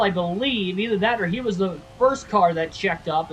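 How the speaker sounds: announcer voice. Acted. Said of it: "I sound like the announcer".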